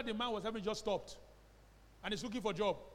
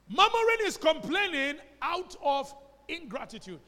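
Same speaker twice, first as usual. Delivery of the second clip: murmuring said high and loud, slowly; preacher's emphatic, slow, loud definition; 7 semitones higher, 9 dB louder than usual. Shown as a demonstration. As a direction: drive the definition home with force on murmuring.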